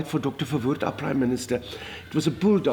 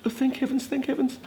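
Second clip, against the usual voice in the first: relieved thought; 9 semitones higher than usual. Retold or imitated. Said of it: "I thought".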